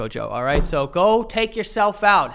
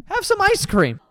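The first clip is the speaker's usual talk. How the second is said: mock pleading; 11 semitones higher than usual. Real, not acted. Mocking the dessert video.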